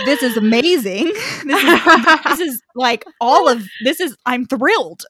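gleeful inner voice, breaking into laughter; mock thrilled. Host voicing Adam's secret inner glee, mock thrilled. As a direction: gush as if secretly dancing a jig. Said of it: "doing a, dancing a little jig".

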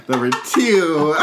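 slow laughing count. Real, not acted. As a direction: crack up mid-count. Laughing drawn out.

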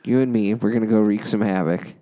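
lightly voiced creepy, irritated clown; a hint of a creepy clown, rushing on; Joker voice. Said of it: "creepy, irritated clown voice".

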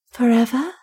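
lightly voiced woman asking, solemn and hushed; solemn question. Stranger asking Wolfgang if he means forever, solemn. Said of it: "said the stranger solemnly".

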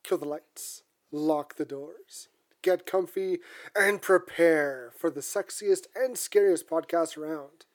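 slow, ominous horror host welcome. Acted. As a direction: draw out the spooky intro like a horror host. Horror podcast opening.

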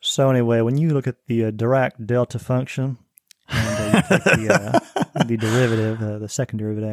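lightly voiced Southern accent, playing against the stereotype. Guest shows the host a smart-sounding Southern accent. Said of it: "There's a stereotype that says Southerners".

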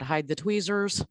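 hide the tweezers said slowly, with a rise on tweezers; slow, deliberate warning. Shown as a demonstration. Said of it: "please trust me on this".

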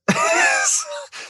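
a burst of high, real laughter. Real, not acted. Laughing about the barely driven leased truck. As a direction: crack up at the irony.

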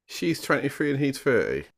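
high gasping whisper; shocked whisper. Real, not acted. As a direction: whisper it in disbelief. Shocked at age gap.

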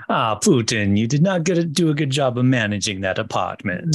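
mock Russian accent. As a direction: scold in a hammed-up Russian accent. Reprises Russian accent bit.

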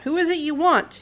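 loud, commanding question; said loudly. Acted. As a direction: call out the question firmly. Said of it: "he said loudly".

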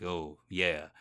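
understated tough guy read for a voice reel. Retold or imitated. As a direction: play it like a hint of a movie tough guy. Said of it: "I was using my tough guy voice".

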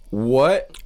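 sharp rising disbelief; loud shocked what. Real, not acted. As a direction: snap up in disbelief. Shocked reaction to news.

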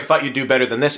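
lightly voiced officer, scolding the boys; disappointed naval officer. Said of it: "Well, he's like".

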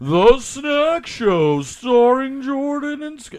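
high, slow, drawn-out show intro; announcer voice. Shown as a demonstration. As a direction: announce it like a TV host. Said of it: "that was just my announcer voice".

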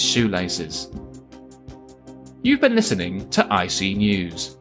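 measured satirical newsreader delivery; news read. Acted. Host signs off the show with spoof headlines, news read.

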